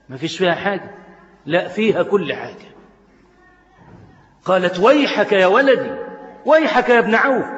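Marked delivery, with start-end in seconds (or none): 4.8-7.5 higher, reproachful rebuke; scolding mother. Acted. Mother rebukes her son for shouting at her, reproachful. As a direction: scold him for raising his voice.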